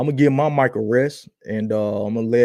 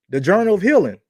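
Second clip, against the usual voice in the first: big game-show topic reveal; booming prize announcer; 7 semitones higher, 6 dB louder, faster than usual. Acted. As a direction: boom it out like a host.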